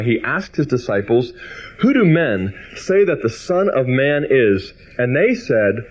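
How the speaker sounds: measured, deliberate reading of the gospel; scripture reading. Acted. Preacher reading scripture aloud, measured. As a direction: read the passage to the congregation with weight.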